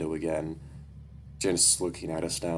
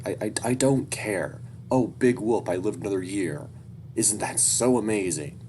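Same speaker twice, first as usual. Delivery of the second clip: louder, higher sarcastic mock enthusiasm; 3 semitones higher, 4 dB louder than usual. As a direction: scoff at the birthday fuss. Sarcastic reply to birthday wishes.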